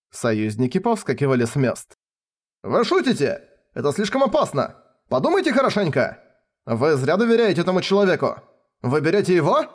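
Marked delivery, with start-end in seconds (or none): 2.6-9.7 high, fast, urgent pleading; alarmed protest. A narrator's reading. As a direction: rush to talk the king out of it. Allies protest the king's choice.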